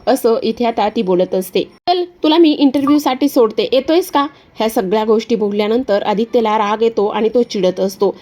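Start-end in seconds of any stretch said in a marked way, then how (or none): 1.6-4.3 Disha's sly voice. Acted. Disha calling from her car to Aditya, high and mocking. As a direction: sweet-talk him with a sneer. Disha offers lift again.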